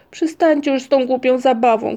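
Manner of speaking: high, loud fed-up protest; acted exasperated yell; shouting. A narrator's reading. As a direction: shout to stop the game. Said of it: "krzyknął Muminek".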